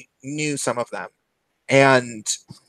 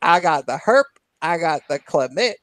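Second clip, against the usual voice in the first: announcing from the bar; 5 semitones higher than usual. Retold or imitated. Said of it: "he was like".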